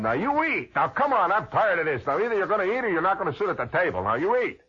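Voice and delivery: put-on father ordering kid to eat; stern father. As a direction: scold like a tired dad. Father scolding at supper.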